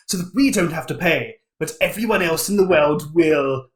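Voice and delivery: lightly voiced scheming mastermind; measured villain monologue, a touch of smugness; gloating Illuminati villain. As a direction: explain the evil plan to the beaten heroes.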